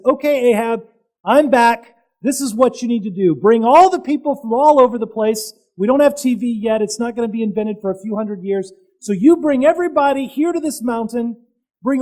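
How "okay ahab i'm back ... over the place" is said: firm, louder summons to the king; Elijah commanding Ahab. Retold or imitated. Elijah tells King Ahab to bring everyone, firm call. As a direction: order Ahab to gather everyone. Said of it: "comes back into the scene and says".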